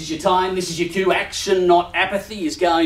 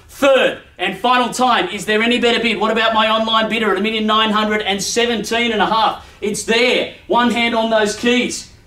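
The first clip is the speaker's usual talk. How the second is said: raised final call; 3 semitones higher than usual. Acted. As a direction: draw out the last call to the room. Auctioneer's final call before selling.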